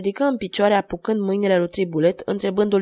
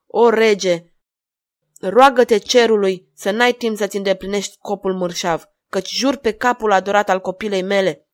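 loud, moderately raised angry oath; vengeful outrage; 6 dB louder than usual. Acted. Jester threatening the king for his daughter's sake, vengeful outrage. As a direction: swear revenge, hitting the key words hard. Father swears revenge on the king.

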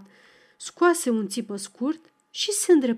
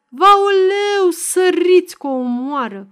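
high, very loud cry for help; desperate scream; 7 semitones higher, 8 dB louder than usual. A narrator's reading. Village woman seeing a girl about to be hit, screaming desperately. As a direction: shriek in alarm to summon everyone. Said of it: "O femeie țipă disperată".

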